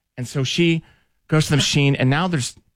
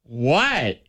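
surprised what; 3 semitones higher than usual. Retold or imitated. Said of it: "I literally said it like that".

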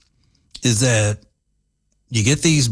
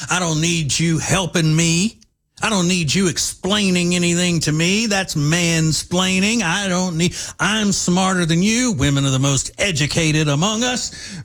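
higher mocking voice of ranting women; mocking women's slogans; 4 semitones higher than usual. Mocking what women scream at men. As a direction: sneer through the slogans. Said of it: "have been screaming".

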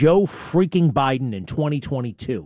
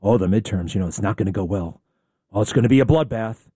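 mocking whiny complainers; 6 semitones lower than usual. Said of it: "And I got these people".

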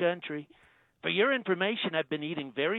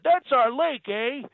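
put-on Canadian accent; 7 semitones higher, 5 dB louder, slower than usual. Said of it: "He said".

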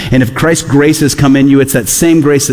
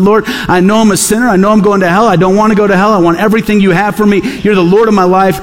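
daughter's prayer; 6 semitones higher than usual. Retold or imitated. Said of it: "she's called out to the Lord".

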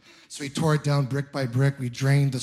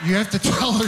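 ordinary talk, nothing marked

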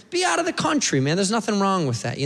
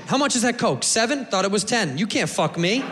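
defiant tourist; 3 semitones higher than usual. Retold or imitated. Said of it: "I go".

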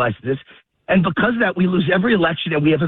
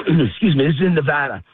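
breathless while walking fast; puffing, a bit winded; out of breath; 3 semitones lower than usual. Real, not acted. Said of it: "I'm out of breath again".

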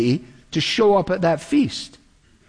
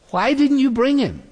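pitched sharply higher, an indignant demand; indignant Pharisees; 9 semitones higher than usual. Acted. Pharisees rebuking their officers, high and indignant. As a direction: snap the question up high.

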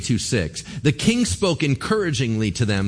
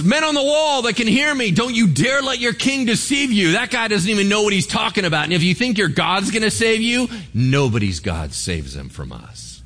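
higher, louder taunting threat; mock loud threat; 7 semitones higher than usual. Assyrian commander threatens the men on the wall, in a higher, louder mock yell. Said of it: "He just gets louder".

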